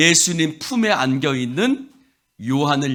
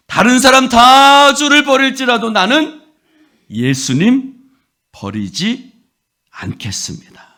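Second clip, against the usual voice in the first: loud vow; 10 semitones higher, 7 dB louder than usual. Acted. Peter's vow, loud start.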